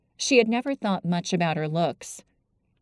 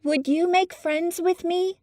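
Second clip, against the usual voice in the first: much higher, gently coaxing a bird; soft eager coaxing; 11 semitones higher than usual. Acted. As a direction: coax the robin like a shy friend. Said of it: "a tone so soft and eager and coaxing".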